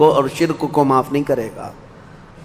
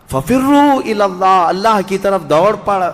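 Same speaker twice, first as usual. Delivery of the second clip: higher, pleading preacher's cry; urgent exhortation; 5 semitones higher than usual. Acted. Preacher urging the listeners to flee to God, high and urgent. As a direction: urge them to run to God.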